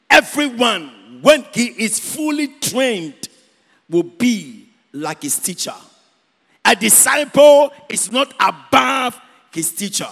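deliberate reading for a congregation; scripture reading. Acted. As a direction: read the verse out phrase by phrase, with pauses. Reads scripture aloud to congregation.

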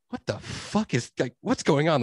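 high, stretched-out disbelief; slow, high-pitched retold shock; mock bewilderment. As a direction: draw it out, utterly baffled. Acts out his shocked inner reaction.

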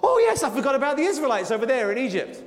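quick, high, scatterbrained "oh yes I forgot"; absent-minded cook. Retold or imitated. Preacher to the congregation, picturing God as a forgetful cook, quick and airy. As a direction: toss it off like a distracted cook remembering a pot. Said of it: "absent-minded cook who's got some pots boiling".

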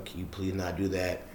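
soft, lightly imitated polite ask; gentle retold plea; nice polite request. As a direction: ask nicely, softly, as if retelling it. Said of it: "asking nicely".

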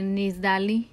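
"Nisdali" with a plain S. Retold or imitated. Relaying how mamá says the name, S pronunciation. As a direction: say "Nisdali", no SH sound. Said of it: "¿Y cómo te dice tu mamá?".

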